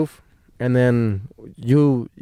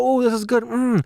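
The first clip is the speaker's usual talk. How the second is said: mock savoring; 10 semitones higher than usual. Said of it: "I was pretending to eat it".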